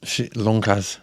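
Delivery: Lonjas with a rolled Spanish flair; spicy Spanish twist. Pretend. Wife's name said with a mock Spanish accent. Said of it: "to make it sound spicy en español".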